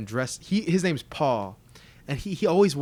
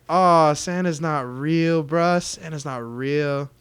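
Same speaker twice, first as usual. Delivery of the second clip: acted letdown; 4 dB louder, much slower than usual.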